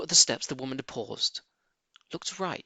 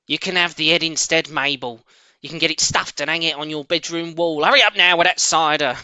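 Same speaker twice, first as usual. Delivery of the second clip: a touch of the bossy farmer's wife, louder at first; lightly voiced stern mistress; 5 semitones higher, 8 dB louder than usual. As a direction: mistress explaining from upstairs. Mrs Bean voiced.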